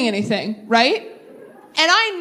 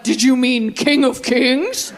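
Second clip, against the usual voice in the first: slow, mock-solemn phone assistant; a lightly robotic, pious autocorrect; iPhone voice; slower than usual. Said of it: "my iPhone's like".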